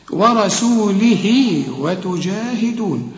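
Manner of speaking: slow recitation, "ورسوله" ending in a long hii; measured recitation joining the two words; linking madd. Shown as a demonstration. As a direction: stretch the end of "ورسوله" into "وتجاهدون". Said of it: "علشان تمدها حركتين عند الوصل اهي".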